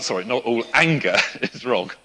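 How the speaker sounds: a real laugh through the self-correction. Real, not acted. Preacher catching his own slip mid-sermon, laughing. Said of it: "Nearly got that wrong".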